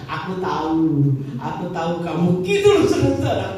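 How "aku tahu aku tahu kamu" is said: low, knowing demon voice; single out your accuser in a low voice; imitating possessing spirit. Spirit accuses the praying minister, low and knowing imitation. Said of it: "Dia melek gitu".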